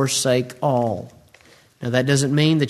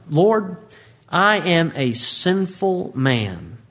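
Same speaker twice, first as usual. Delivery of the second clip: humble confession; much slower than usual. Acted. Peter's confession, slowed.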